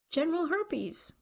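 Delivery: a hammed-up lisping introduction. A narrator's reading. Man lisps through fake teeth to cheer the girl. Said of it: "Garrett lisped".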